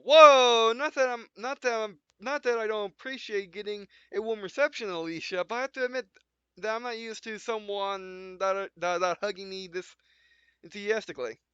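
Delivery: flustered at the hug, lightly voiced; Minko voiced. Minko flustered by Alicia's hug, lightly voiced.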